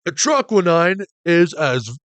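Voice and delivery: slow, deliberate judge voice; judge's voice. Acted. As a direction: drag it out like the old judge. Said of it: "why do I use the judge's voice on Apollo?".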